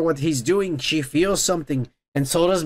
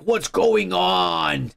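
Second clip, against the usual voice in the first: slow mystified voice; much slower than usual. Retold or imitated. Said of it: "somebody's all like".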